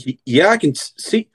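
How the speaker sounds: high, fast, panicked questions; alarmed Oliver. Acted. Oliver panics at seeing his friend with Mom. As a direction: stammer then blurt out in alarm.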